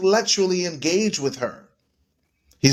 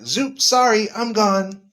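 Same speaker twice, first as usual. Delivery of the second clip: high, breezy mock goodbye; flippant exit; 5 semitones higher than usual. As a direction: toss it off and bolt. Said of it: "was like".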